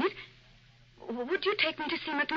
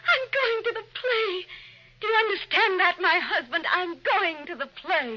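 giddy delight; 6 semitones higher than usual. Acted. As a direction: sing it out with childish glee. Wife exults over theater outing.

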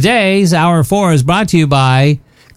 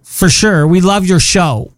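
put-on Valley Girl. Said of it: "I'll have to do the Valley Girl thing".

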